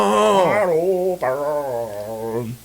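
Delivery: extremely slow drawn-out mock croon; rock singer impression. Echoing the band joke with a drawn-out croon. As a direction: stretch every vowel like a rock ballad. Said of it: "talk like the lead singer from a band".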